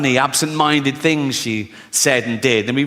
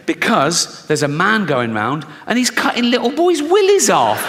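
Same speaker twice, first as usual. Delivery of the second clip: scary mum warning; 4 semitones higher than usual. Retold or imitated.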